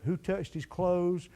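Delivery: slow, quiet, a touch of fear; understated frightened whisper of a woman; scared woman. Acted. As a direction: voice her dread, softly and slowly. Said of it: "She's scared to death".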